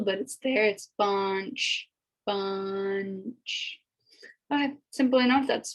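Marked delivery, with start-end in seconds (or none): 1.0-3.8 "bunch" with a barely heard n; "bunch", its n almost hidden; subtle nasal n. Shown as a demonstration. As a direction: let the n in "bunch" slip in softly. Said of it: "the N is kind of subtle".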